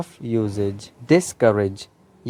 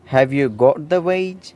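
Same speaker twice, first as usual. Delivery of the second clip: a deliberate dictation pace; slow example sentence; much slower than usual. Shown as a demonstration. Teacher reading a model sentence slowly to students. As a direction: read slowly, every word clear. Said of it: "क्या तुम्हें तनख्वाह मिल गई है".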